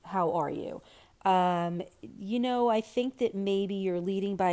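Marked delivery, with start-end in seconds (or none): 0.1-0.8 lower, gentle, sincere question; heartfelt check-in. Shown as a demonstration. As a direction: ask as if you truly want to know. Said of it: "if you ask more sincerely".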